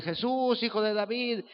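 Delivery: llamado agudo, sin subir el volumen; grito imitado. Retold or imitated. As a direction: imita a una mujer que clama de lejos. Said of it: "gritándole". (grito fingido, alargado y agudo)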